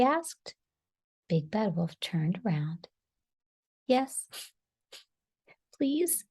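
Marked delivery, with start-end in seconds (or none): 3.9-6.2 high, small, tearful acceptance; sniffling. A narrator's reading. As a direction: sniff back tears and accept timidly. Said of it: "he sniffed".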